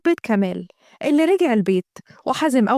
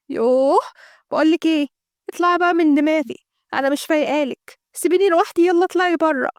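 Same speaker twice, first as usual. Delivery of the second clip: higher angry outburst; 5 semitones higher than usual. Acted. Girl angrily ordering her sister out of the room. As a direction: throw her out in a fury.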